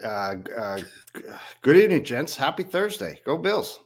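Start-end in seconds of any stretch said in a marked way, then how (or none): 1.6-3.8 a weak attempt at an Australian accent, higher; an Australian accent that keeps slipping, pitched up; bad Australian accent. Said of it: "read Sheldon Wetmore in an Australian accent".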